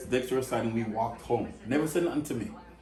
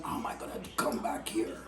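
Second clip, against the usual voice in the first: panicked inner voice; 7 dB quieter than usual. Retold or imitated. Inner panic after public humiliation.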